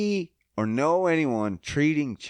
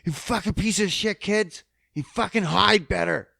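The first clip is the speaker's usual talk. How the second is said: imitating an abusive father; 5 semitones higher than usual. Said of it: "You'd be like".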